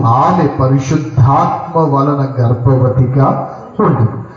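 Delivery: slow, drawn-out Bible reading; scripture reading. Acted. Preacher reads the verse to the congregation, slow scripture reading. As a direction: read the verse out slowly, stretching the words.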